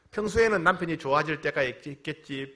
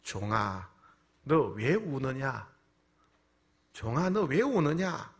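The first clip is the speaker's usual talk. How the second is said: slow, drawn-out divine voice, gently imitated; voice of the Holy Spirit; 3 semitones lower, much slower than usual. The Holy Spirit asks the weeping pastor why, slow divine voice. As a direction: speak slowly as God questioning a servant. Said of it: "성령의 음성이 들려옵니다".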